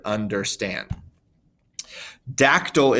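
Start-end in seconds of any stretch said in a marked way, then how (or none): 0.0-0.9 "understand" as under-STAND, end weighted; stress on last syllable. Shown as a demonstration. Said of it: "more emphasis on the end".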